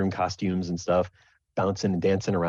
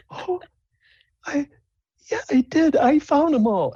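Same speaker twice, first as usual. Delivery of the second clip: very high falsetto, halting then louder; touched Sable; 6 dB louder than usual. Acted. Sable, tearful, accepts credit before judges, touched high voice. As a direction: start faint, then claim it proudly. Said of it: "you see a tear well in the corner".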